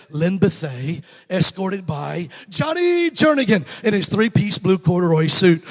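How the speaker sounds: loud announcer voice booming over the stands; stadium announcer call. Retold or imitated. Announcer at the homecoming game, booming the names out loud. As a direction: call it out like the PA at halftime.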